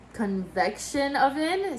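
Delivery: convection oven with a light French accent, slow; little French accent. Shown as a demonstration. Vlogger naming her kitchen oven, in a playful light French accent. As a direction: play up a mock French accent on the product name, lightly. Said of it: "saying it with my little French accent".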